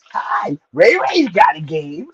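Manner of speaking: lightly acted movie clown, drawn out; hint of a playful creepy clown, slow; Scary Movie clown. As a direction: do a mock movie-clown line. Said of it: "doing that thing from Scary Movie".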